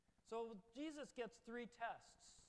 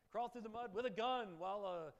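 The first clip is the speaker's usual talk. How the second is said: rising excitement; 8 dB louder than usual. Real, not acted. Building to drill sergeant impression.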